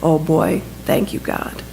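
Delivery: put-on hushed, relieved young soldier; softly voiced private's prayer of thanks. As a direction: drop to a near-whisper by the end, thanking heaven. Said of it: "said in the voice of a twenty-two-year-old private".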